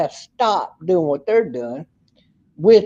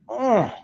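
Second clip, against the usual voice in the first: pained hum; 4 semitones higher, 5 dB quieter than usual. Real, not acted. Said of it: "I got a brain freeze".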